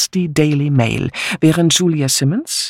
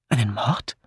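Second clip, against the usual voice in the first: mildly surprised; 3 semitones lower, 6 dB quieter than usual. Acted. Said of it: "fragte ihr Mann leicht überrascht".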